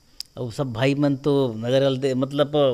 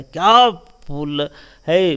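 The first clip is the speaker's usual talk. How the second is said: slow, drawn-out wonder; admiring exclamation; 4 dB louder, much slower than usual. Acted. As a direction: marvel at it, stretching the words out. Acting out admiration of a flower.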